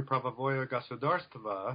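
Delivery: "правовое государство" said in Russian by an English speaker with a self-confessed poor accent. Real, not acted. Scholar quoting Gorbachev's term to the host, in careful non-native Russian. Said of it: "forgive my poor, uh, Russian accent".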